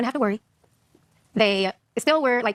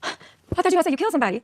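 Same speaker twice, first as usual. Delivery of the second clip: relieved mom; 8 semitones higher, faster than usual. Retold or imitated. Relieved mom in retold call.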